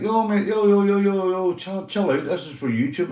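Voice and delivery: loud high "yo, chill out"; retold yell. Vlogger retelling telling the neighbour to stop the music, loudly. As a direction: wave him down, half yelling. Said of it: "I'm like".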